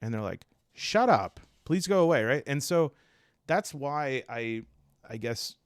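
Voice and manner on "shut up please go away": mock dismissal. Myers-Briggs acted dismissing Jung.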